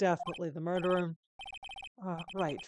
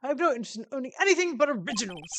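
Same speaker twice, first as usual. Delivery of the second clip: louder, higher, boastful bluster; pompous CEO, offended; 7 semitones higher, 8 dB louder, faster than usual. Acted. CEO defending his original painting, pompous indignation. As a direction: protest grandly with wounded pride.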